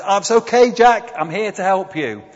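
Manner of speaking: high, loud call down to someone; reassuring voice calling loudly from above. Acted. Calling down to Jack on the cliff, high loud voice from above. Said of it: "a voice comes down".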